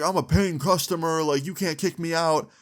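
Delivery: super attitude. Retold or imitated. Friend arguing with the mall security officer, giving attitude. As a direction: push back with mild mock indignation. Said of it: "super attitude".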